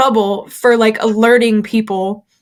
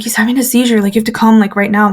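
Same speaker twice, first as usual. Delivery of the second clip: panicked; faster than usual. Retold or imitated. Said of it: "I'm panicking".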